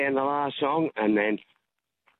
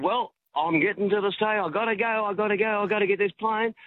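mock singer voice; 7 semitones higher than usual. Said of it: "and he said".

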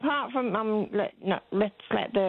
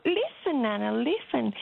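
put-on higher little girl's voice, insistent; child voice; 3 semitones higher than usual. Granddaughter urging blind Nana to listen to the cars, insistent. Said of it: "She said".

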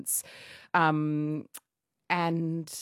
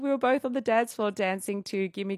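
usual speaking voice

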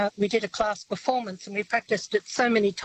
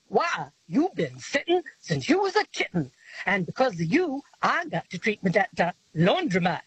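put-on old-time gangster. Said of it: "meant to be read in a gangster voice".

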